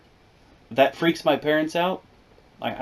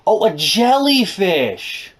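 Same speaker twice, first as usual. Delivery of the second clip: slow, higher sarcastic oh; mock realization; 7 semitones higher, 4 dB louder, slower than usual. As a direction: fake dawning understanding. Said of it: "me and my sister are like".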